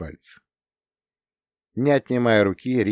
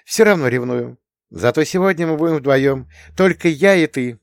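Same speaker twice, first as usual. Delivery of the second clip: Rita's voice; 7 semitones higher, 5 dB louder than usual. A narrator's reading. Rita, voiced higher.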